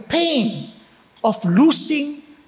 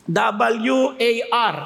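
spelled out slowly; 5 semitones lower, much slower than usual. Shown as a demonstration.

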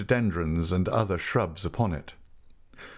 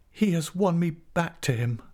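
high, plaintive woman's voice; wronged heroine's high-voiced admission; anguished confession; 9 semitones higher than usual. A narrator's reading. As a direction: confess it sorrowfully, pitched high. Tess confesses to Angel in story.

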